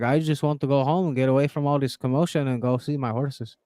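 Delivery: a lightly put-on Mexican accent; tired player answering in a faint Mexican accent; Jokic in mock Mexican accent. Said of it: "why you gave him a Mexican accent".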